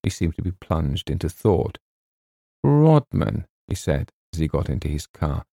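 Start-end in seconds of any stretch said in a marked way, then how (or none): 2.6-3.5 Scottish agent. Acted. McKinnon voiced in story.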